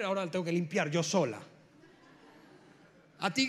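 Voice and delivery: queja irónica de la madre, más fuerte; ironía de madre anciana molesta; tono irónico. Retold or imitated. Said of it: "en un tono muy irónico le dijo". (la madre le reprocha al hijo mayor y al segundo, irónica)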